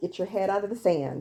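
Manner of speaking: normal talking voice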